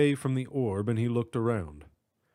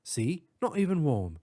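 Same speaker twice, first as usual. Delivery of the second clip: put-on British accent; 4 semitones higher than usual. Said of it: "distinct British accent".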